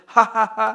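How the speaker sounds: a spoken ha ha ha; mock laugh. Shown as a demonstration. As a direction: fake laugh for the parrot to copy. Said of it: "You say".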